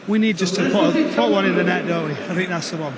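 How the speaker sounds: breathless after running; talking while catching breath. Real, not acted. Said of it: "You're a bit out of breath".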